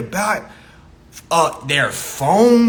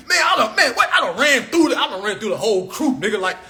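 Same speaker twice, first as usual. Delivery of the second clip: mock bragging shout; 4 semitones higher than usual. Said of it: "men gotta wear this shit like a badge".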